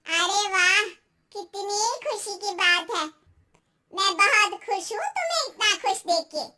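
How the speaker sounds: gushing aunty turning to warning; congratulate, then caution like a knowing elder; meddling aunty, emphatic then ominous; cautioning neighbour aunty. Acted.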